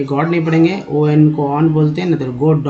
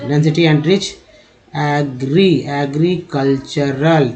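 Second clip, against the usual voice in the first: slowed repeat; much slower than usual. Shown as a demonstration. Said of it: "है ना".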